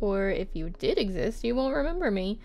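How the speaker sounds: measured, expressive reading; love letter read-aloud. Acted. Writer to Anne about missing her, lightly performed letter reading.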